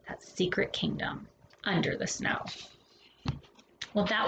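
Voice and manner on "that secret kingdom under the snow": hushed, softer secret tone; soft whisper. Acted. Reading the author's note to children, softer whisper. Echoes the story's refrain.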